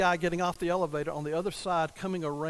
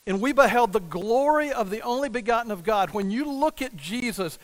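ordinary talk, nothing marked

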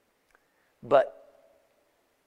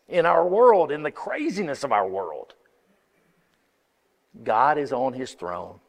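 ordinary talk

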